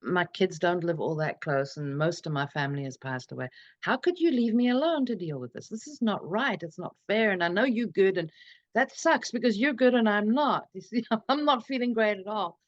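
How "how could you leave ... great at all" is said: higher, mock yell of grief and anger; hammed-up retold rant, pitch raised; retold angry yelling. Widow retelling how she yelled at her dead partner Katie, mild mock yell. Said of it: "and I was yelling at her".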